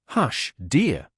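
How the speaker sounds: a mild anxious plea, rising on "be"; anxious cry. A narrator's reading. Lucy anxiously begs Miss Pross to be careful, mildly alarmed. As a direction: urge caution with a touch of alarm. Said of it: "cried Lucy".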